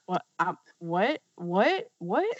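rising, baffled whats; stunned disbelief. Retold or imitated. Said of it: "Memphis is still like".

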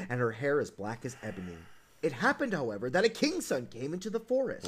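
low, measured fairy-tale reading; storybook narration. A narrator's reading. Host reading Snow White's funeral, solemn storybook narration. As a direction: read it as a solemn bedtime tale, dropping low at the end.

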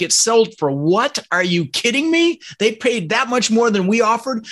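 mock-shocked squeak at the sale price; incredulous outrage. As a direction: play the stunned bidder who just lost. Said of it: "I'm like".

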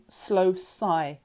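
usual speaking voice

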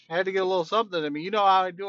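snacking mid-sentence; chewing while talking. Real, not acted. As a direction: talk while eating. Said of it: "Sorry, I'm snacking too".

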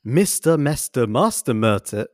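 slow, deliberate tongue twister; measured, word-by-word delivery; careful tongue twister. Shown as a demonstration. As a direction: pick through each word so none trips you. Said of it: "It's such a tongue twister".

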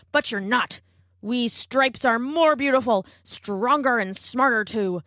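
gruff bragging wildebeest; boastful wildebeest. Acted. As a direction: puff up and brag.

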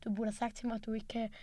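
soft, hushed mock teacher line; quiet imitation of the teacher. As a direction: murmur it like a pitying teacher. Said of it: "så sådan".

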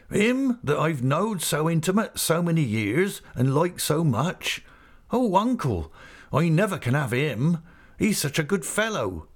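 put-on a girl gently refusing her old friend; a hint of a tender young niece; Emily telling her uncle why she cannot have Ham; lightly voiced girl. A narrator's reading. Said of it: "says Emily".

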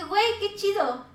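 high, bright delighted exclamation; gushing with happy surprise; a friend's kindness sinks in. Retold or imitated. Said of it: "y dije".

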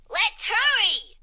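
high, loud, drawn-out eager cry; excited exclamation. A narrator's reading. Exclamation Point hurrying family to new school, excited exclamation. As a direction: exclaim it brightly as an impatient storybook character. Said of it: "he exclaimed".

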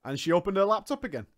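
usual speaking voice

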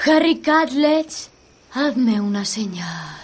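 slow, hushed trance voice; seance medium. Acted. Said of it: "intentaré alcanzar un estado de trance".

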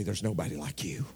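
low, soft retold reassurance; hushed, tender quote of a comforting woman; reassuring woman's voice, imitated. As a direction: say it gently and low, as remembered comfort. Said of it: "for that woman's voice".

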